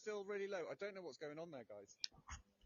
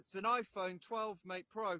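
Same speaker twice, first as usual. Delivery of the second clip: phone held in mouth; 2 semitones higher, 7 dB louder, slower than usual. Real, not acted. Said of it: "No, it's not".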